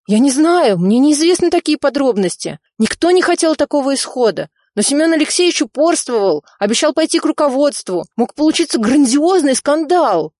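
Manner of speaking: frightened official. Acted. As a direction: blurt names out in fear. Narrator voices frightened Bespalov.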